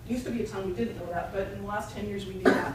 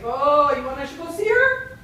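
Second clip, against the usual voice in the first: put-on higher, louder rabbi with a Jewish accent; attempted Jewish accent; 4 semitones higher, 6 dB louder than usual. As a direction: put on a clumsy Yiddish-style accent. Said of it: "I don't do that accent well".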